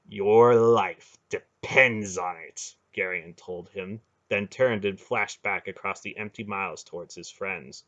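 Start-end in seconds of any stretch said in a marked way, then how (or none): 0.1-2.8 slow, heavy warning; slow menacing warning. Acted. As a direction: weigh each word. Final threat.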